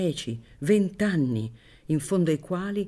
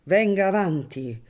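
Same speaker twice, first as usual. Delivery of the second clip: loud challenge; 3 semitones higher, 4 dB louder than usual. Acted. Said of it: "poi disse".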